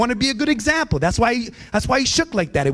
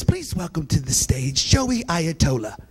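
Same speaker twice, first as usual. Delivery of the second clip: announcer mispronouncing; 3 semitones lower, slower than usual. Retold or imitated. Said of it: "they introduced me like this".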